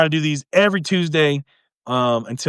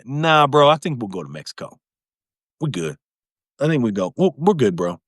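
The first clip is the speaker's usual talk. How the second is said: laid-back mock Canadian; 3 semitones lower than usual. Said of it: "They're like".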